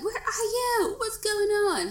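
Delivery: mock panicked wife on the phone; anxious nagging call.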